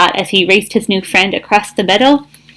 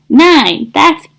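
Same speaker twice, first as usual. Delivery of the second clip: shout; 6 semitones higher, 4 dB louder, much slower than usual. Acted. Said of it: "Thistle shouted".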